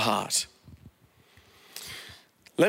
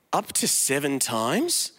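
smug, slow little question; self-righteous tone; 4 semitones lower, slower than usual. Acted. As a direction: ask it as if seven were generous. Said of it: "I love his, like, self-righteous tone in there".

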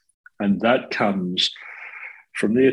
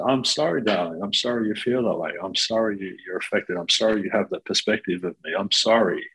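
compassionate apology. Shown as a demonstration. Coaching a client's mother to answer her son, gently compassionate. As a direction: say sorry as if offering a hug. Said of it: "We're using 'I'm sorry' compassionately".

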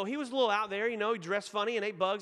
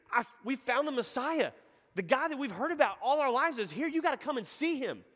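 higher-pitched, eager retelling of big news; excited announcement; 5 semitones higher than usual. Retold or imitated. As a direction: tell your brother the amazing news, voice lifted. Andrew excitedly telling his brother Peter.

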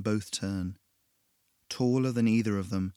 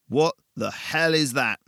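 louder, slower, alarmed; mild startled yell; shocked shout; 5 semitones higher, 7 dB louder, slower than usual. Acted. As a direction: back away as you cry it out. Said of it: "he shouted".

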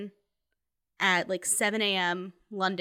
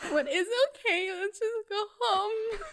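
high, slow, teary words; sobbing to dad in the car, half laughing; 12 semitones higher, slower than usual. Retold or imitated. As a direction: sob it out, giving up. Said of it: "I just started sobbing".

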